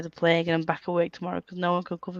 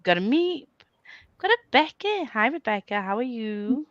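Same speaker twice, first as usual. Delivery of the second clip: reading a message aloud; 7 semitones higher, slower than usual. Retold or imitated. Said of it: "we're saying".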